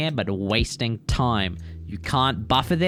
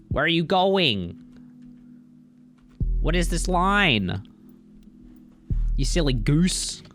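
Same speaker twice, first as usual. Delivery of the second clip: drawn-out exasperated question; baffled, slow and high; 5 semitones higher than usual. Real, not acted. Exasperated at runner's route.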